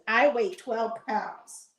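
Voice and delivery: slightly high, slow voice for a pet; lightly voiced talking pet; pet's voice. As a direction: speak up for a big pet, drawn out. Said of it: "He says".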